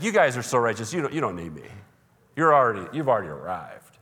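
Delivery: lightly sarcastic mock praise; mild, dry put-down posing as a compliment; sarcasm. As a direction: feign being impressed by the self-righteous. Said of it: "That's sarcasm in its glory".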